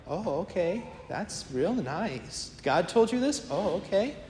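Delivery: politely sceptical, drawn-out reply; humouring. Retold or imitated. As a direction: humour them with mock-polite okays. Humouring a woman they think crazy.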